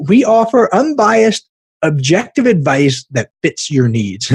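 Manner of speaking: slow, drawn-out mock slogan, opening high; mock sales slogan. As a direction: recite the slogan, struggling to keep a straight face. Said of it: "can't even say it with a straight face".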